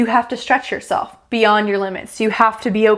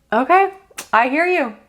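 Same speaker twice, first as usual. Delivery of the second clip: higher, knowing voice of the universe; universe granting the request; 5 semitones higher than usual. Acted. The universe grants Mark's request, knowing and raised. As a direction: answer like a patient cosmic power.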